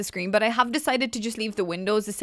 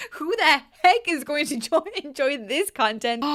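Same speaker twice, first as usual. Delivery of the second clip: higher, incredulous question broken by laughter; laughing while talking; 5 semitones higher than usual. Real, not acted. Vlogger mocking her own advice to viewers, laughing. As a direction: laugh through the question, slowing at the end. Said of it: "now I'm laughing saying this".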